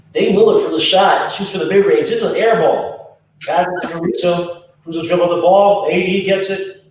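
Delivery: lively play-by-play call; sports commentator voice. Shown as a demonstration. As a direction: call the game like a broadcaster. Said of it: "trying to do my sports commentator's voice".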